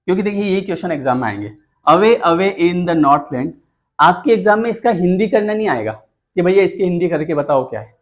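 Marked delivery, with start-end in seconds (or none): 1.9-3.5 slow, measured reading of a poem line; teacher slowly reciting the poem's opening line to the class; slow poem recital. Acted.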